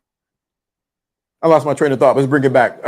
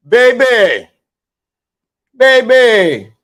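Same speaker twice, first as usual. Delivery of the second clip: put-on higher, drawn-out baby, baby; mock pleading; 5 semitones higher, much slower than usual. Host teasing women in the audience, drawn-out coo. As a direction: coo it out with a falling sigh.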